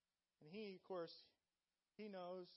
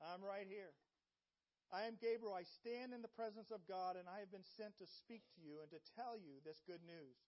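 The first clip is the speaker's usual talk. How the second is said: commanding angel; 3 semitones higher, 5 dB louder than usual. Acted. Gabriel rebuking the doubting priest, booming and stern. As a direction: proclaim it with angelic authority.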